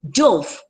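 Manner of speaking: "Dove" with a long o; dove, past of dive. Shown as a demonstration. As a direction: say "Dove" to rhyme with stove. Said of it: "past tense of dive".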